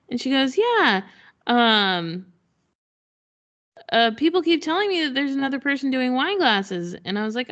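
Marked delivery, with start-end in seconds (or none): 0.6-7.0 chatty potter. Retold or imitated. Potter mentions another seller.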